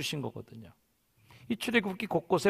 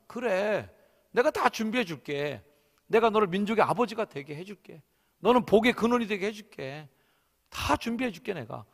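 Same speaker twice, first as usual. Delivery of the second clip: higher-pitched, eager reassurance; pleased, doting; 6 semitones higher, 3 dB louder than usual. Acted. God watching Abraham set out, pleased and reassuring. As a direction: promise it like a proud parent. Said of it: "흐뭇함으로 보시는 거 아니겠어요?".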